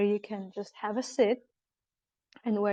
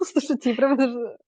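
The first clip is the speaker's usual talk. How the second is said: moved; 2 semitones higher, 6 dB louder than usual. Real, not acted. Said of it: "I'm crying".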